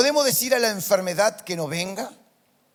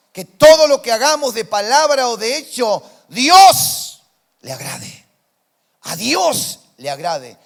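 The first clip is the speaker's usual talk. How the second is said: preaching shout; 5 semitones higher, 13 dB louder than usual. Real, not acted. Pastor shouting the sermon climax to the church. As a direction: bellow it to the congregation.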